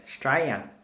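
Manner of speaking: Australia said as "Straya"; Aussie shortened pronunciation. Shown as a demonstration. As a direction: drop the first vowel and the L from "Australia": Straya. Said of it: "we leave out the L I A".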